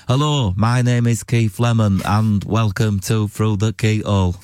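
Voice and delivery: low, stilted autocue read; reading a newspaper. Shown as a demonstration. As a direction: read it out like newspaper copy, no performance. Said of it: "I just read it like I'm reading a newspaper".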